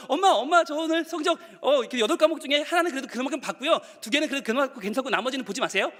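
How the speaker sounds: high, pleading schoolkid impression; nervous child. Child showing mom the exam results, pleading. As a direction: hedge like a child bringing bad grades. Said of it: "자, 시험을 쳤어요".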